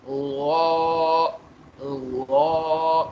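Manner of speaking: गौ said loud and full, with lips rounded; a thick, rounded Arabic गौ; heavy rounded gau. Shown as a demonstration. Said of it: "होठों को गोल करना है".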